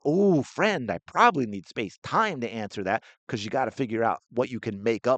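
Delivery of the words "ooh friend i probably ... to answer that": mocking quote. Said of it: "And then".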